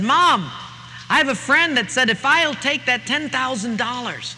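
high, eager pleading son; a son coaxing his mother, high and eager. Acted. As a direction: beg Mom to let you have the money.

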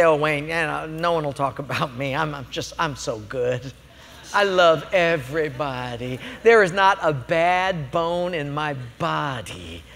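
low, soft, syrupy mock piety; smug self-righteous churchgoer. A preacher mocking a churchgoer who thinks no one gossips about him, in a low, soft, smug voice.

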